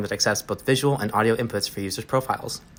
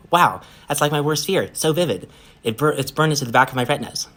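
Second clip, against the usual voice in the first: higher, animated amazement; excited, raised-pitch awe; awed reaction; 5 semitones higher, 4 dB louder than usual. Acted. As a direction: react as if wowed. Sarah awed by vivid vision.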